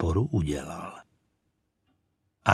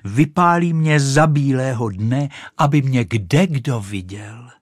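louder delighted exclaim; thrilled to be seen; 4 semitones higher, 5 dB louder than usual. Acted. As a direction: rocket gloats on the fire. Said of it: "zvolala Raketa".

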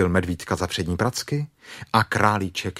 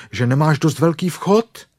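higher, louder reproach; grumbling; 8 semitones higher, 5 dB louder than usual. Acted. Stuck bear blames rabbit's doorway, loud grumble. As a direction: grumble accusingly, pushing it out. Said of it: "bručel Pů".

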